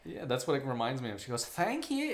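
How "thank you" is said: a hint of Shrek, pitched up; Shrek-like thank you. Friend's thank you done as a light Shrek voice. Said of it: "It reminds me of Shrek".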